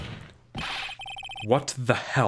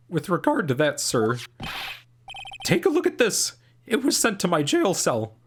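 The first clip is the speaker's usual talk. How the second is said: high, eager rookie cop; a jittery young officer; nervous officer voice; 7 semitones higher than usual. Acted. Same officer character.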